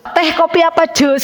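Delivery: high, sing-song offer of drinks; stewardess intonation. Retold or imitated. Preacher imitates a stewardess offering drinks, high sing-song. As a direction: sweetly offer tea, coffee or juice like a stewardess. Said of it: "intonasinya bener-bener kayak pramugari".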